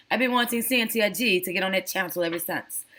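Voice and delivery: playful attempt at a British Jamaican accent; mock British Jamaican accent. Shown as a demonstration. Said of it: "my British Jamaican accent".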